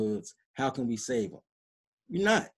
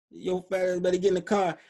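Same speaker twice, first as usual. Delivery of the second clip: mock rude call-out; 4 semitones higher, 3 dB louder than usual. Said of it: "or I could say".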